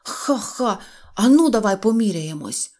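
loud, indignant, with a mock ha-ha; shouted challenge. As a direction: dare him to a contest. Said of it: "закричав Сиропчик". (обурений гучний виклик)

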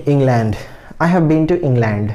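इंग्लैंड with a light first syllable and a full, stressed LAND; weight the second syllable of England. Shown as a demonstration. Teacher showing the general Indian way, stress on LAND in England. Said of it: "इसमें stress mark लैंड पे जा रहा है".

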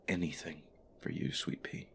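soft tender whisper. Acted. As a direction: breathe it softly.

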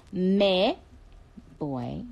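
put-on "boy" with a b sound for Spanish voy; Spanish "boy" pronunciation. Shown as a demonstration. Explaining the accent to fans, "boy" said with a b. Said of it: "you say boy, because that's how they say it".

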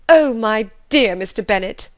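loud, high, breathless gush; gushing mother. Acted. Mother rushing in to tell her husband, loud gushing. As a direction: burst in overflowing with news. Mrs Bennet bursts in gushing.

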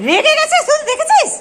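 high, laughing while teasing the pet; real amused laugh breaking through the words. Real, not acted.

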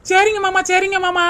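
gleeful. Acted. Wife gleeful after getting money.

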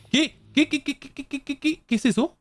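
rapid high-pitched what what what; shocked. Real, not acted. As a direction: squeal of disbelief. Shocked gameplay reaction.

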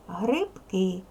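Грибки with a clearly voiced B before К; voiced consonant. Shown as a demonstration. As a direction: keep Б in Грибки as B, never P. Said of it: "якраз дзвінкий".

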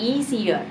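"easier" modelled clearly as ee-zee-er; demonstrated pronunciation. Shown as a demonstration. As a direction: show learners how "easier" sounds, ee-zee-er. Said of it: "มันก็จะออกเสียงใหม่เป็น".

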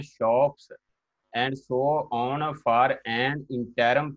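slow dictation, punctuation spoken aloud; dictating while driving. Acted. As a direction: dictate steadily for note-takers. Shorthand teacher dictating text.

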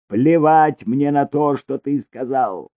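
high, loud and slow, still yelling; loud defiance. A narrator's reading. Elina defies Cesare, still yelling loud and slow. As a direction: hurl it back at him. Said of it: "завопила она".

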